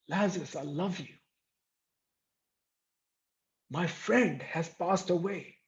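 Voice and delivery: softly grieving, with long pauses; sad. Acted. Preacher voices Jesus mourning his friend Lazarus, quiet sadness. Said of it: "He's sad that he's lost someone".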